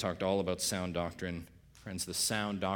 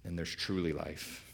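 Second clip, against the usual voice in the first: soft, slowed truly set apart; stress on truly; 4 semitones lower, 6 dB quieter than usual. Real, not acted. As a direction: drop the voice and weigh truly. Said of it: "This is the emphasis".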